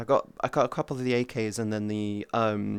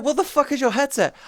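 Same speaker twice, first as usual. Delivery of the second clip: mock outraged question; 11 semitones higher than usual. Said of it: "It's like".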